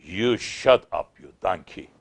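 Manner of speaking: understated imitation of an imposing old sheikh; strong, majestic voice. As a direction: retell a majestic rebuke, taking your time. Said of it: "with a very strong voice, majestic voice".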